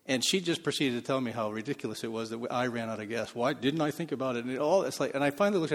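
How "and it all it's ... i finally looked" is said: ordinary talk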